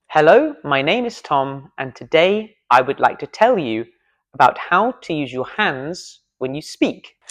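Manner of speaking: same line, now driven by hand gestures; emphatic demo read with gestures. Shown as a demonstration. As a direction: let the hands carry each word. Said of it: "my hands are already doing it".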